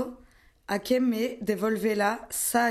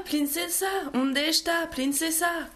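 high calling across the forest; 7 semitones higher than usual. Acted. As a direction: call her name from far away. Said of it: "chamando pela princesa".

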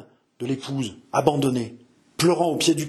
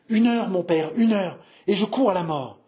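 desperate plea; 6 semitones higher than usual. Acted. Son begs father for a delay.

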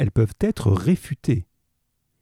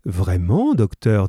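Holmes doucereux et poli; ton mielleux. Acted. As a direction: sucre chaque mot, faussement aimable. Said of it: "d'un ton mielleux". (ton mielleux, un peu ironique)

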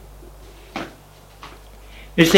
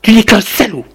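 shouted insult; 6 semitones higher than usual. Acted. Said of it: "et lui crie".

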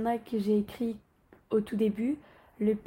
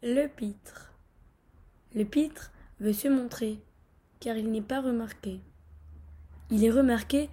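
tag. Acted. Récite son poème.

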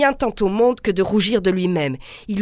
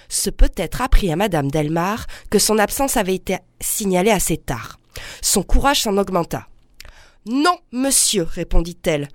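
a steady literary reading voice; story reading. A narrator's reading. Teacher reading a passage of Indiana to students, in a measured reading voice. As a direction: read the novel passage aloud to the class. Reads a novel passage aloud.

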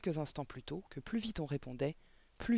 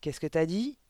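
clipped, a bit louder demand; curt question; 5 dB louder than usual. Acted. Headmistress turning on the small girl, curt demand. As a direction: snap the question out sharply. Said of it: "demanda-t-elle sèchement".

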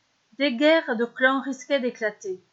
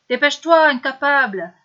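shouting; 6 dB louder than usual. A narrator's reading. Noble yelling at his servant, loud. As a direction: snap at him, loud and impatient. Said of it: "criait-il".

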